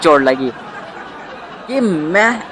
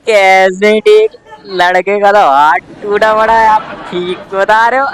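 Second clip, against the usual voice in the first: slow, louder nosy uncle; mock nosy neighbor; 4 dB louder than usual. Nosy uncle on the phone questioning the mother. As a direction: stretch the question out like a prying uncle.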